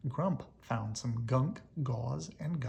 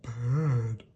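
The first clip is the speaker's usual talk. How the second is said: squeaked; 9 dB louder than usual. Acted. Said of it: "little Doom squeaked".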